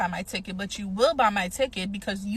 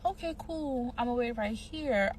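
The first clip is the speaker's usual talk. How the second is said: fake sweet agreement; 5 dB quieter than usual. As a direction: play along sweetly while planning to bolt. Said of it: "I'm like".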